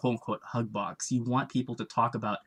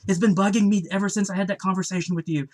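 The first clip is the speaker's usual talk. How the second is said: higher, louder gushing regret; apologetic customer; 8 semitones higher, 5 dB louder than usual. Retold or imitated. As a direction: play the guilt-ridden fan. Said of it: "he's just so apologetic".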